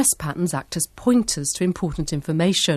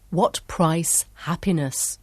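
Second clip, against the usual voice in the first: careful, slow title; slower than usual. Shown as a demonstration. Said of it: "speaks carefully".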